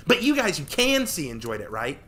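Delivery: high, loud hopeful question; eager hopeful girl. Acted. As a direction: fish for praise. Tori eager.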